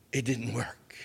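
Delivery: whispered dread, barely voiced; hushed realization. Telling the crowd the seatbelt failed, whispered. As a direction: breathe it out like a secret.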